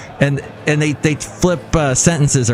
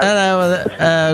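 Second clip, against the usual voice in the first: put-on British accent; 4 semitones higher than usual. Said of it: "I would do a British accent".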